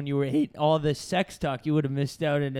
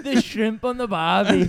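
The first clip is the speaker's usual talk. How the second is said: mock Australian accent; 4 semitones higher, 4 dB louder than usual. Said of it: "all our great accent work".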